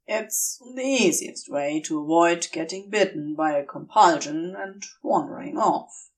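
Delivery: a low, steady voice, practical and kind; Crowley's voice. Acted.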